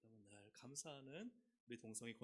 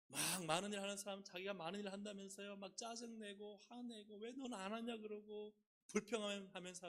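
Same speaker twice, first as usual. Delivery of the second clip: mock grumbling; 7 semitones higher, 5 dB louder than usual. Mimics irritated, complaining church worker.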